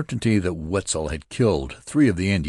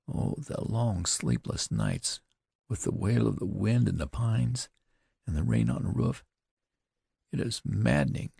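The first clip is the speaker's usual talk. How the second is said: higher, tearful entreaty of a sister; pleading young woman; 5 semitones higher, 5 dB quieter than usual. A narrator's reading. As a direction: beg him not to leave again. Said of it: "To these entreaties".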